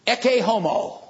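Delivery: Ecce homo in Latin, ECK-ay HO-mo, high and ringing; Latin phrase. Shown as a demonstration. Pilate presenting Jesus to the crowd, Ecce homo proclaimed high. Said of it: "He probably said".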